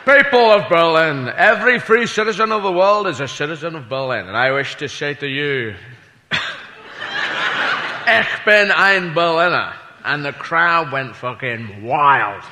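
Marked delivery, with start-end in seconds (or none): 0.0-9.7 a lightly voiced Kennedy address; Kennedy speech. Comic quoting Kennedy's Berlin speech, lightly voiced declaiming. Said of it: "Anyway, he said".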